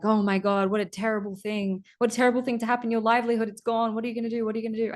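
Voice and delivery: high, alarmed village gossips; mock-horrified villager voices; villagers gasping. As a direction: wring your hands like shocked neighbours. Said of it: "everyone in the village was like".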